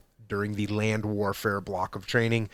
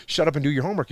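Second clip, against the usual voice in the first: mock snapped order to a kid; curt order; 3 semitones higher, much faster than usual. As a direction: bark it like an impatient parent. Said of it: "You just don't say".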